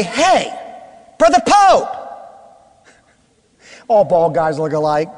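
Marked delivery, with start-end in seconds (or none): 0.0-1.9 mistaken greeting. Retold or imitated. Greeting mistaken bald man.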